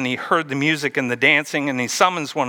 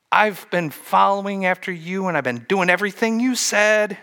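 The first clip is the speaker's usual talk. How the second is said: a lightly raised, aggrieved son; resentful son; 5 semitones higher than usual. Acted. Older son complaining to his father, lightly aggrieved. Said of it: "The son said".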